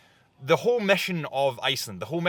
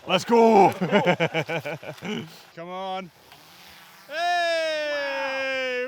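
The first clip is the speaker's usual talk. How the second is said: put-on Scottish accent; 10 semitones higher, 4 dB louder, much slower than usual. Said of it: "In the Scottish accent".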